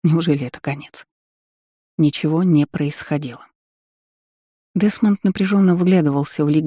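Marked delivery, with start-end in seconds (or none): none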